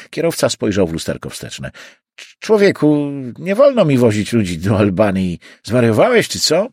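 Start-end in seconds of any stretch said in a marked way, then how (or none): 2.2-6.7 stammered start, raised voice; incredulous protest. Acted. Driver refusing passenger's trip to Albany, incredulous protest. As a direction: balk at an absurd request.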